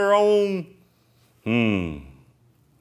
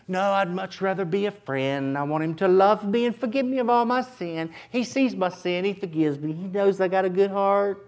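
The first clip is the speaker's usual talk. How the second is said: mock objection; 2 semitones higher than usual. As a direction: plead gently to stay just friends. Voices a believer's soft objection.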